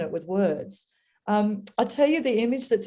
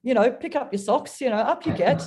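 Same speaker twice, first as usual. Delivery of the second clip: higher, brisk, chivvying schoolmaster voice; hammed-up nagging, pick-up-your-socks cheerleader; mock bossy God; 3 semitones higher than usual. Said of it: "God's not kind of sitting there going".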